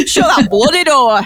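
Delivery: playful grumpy ghost in northern English; mock northern English scolding. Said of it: "just a northern ghost worried about the heating bill".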